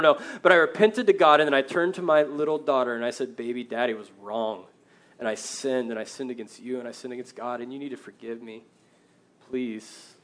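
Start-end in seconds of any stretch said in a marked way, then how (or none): 3.4-10.2 retold confession, softening as it goes; soft apology. Father asking his little daughter's forgiveness, quiet retold apology.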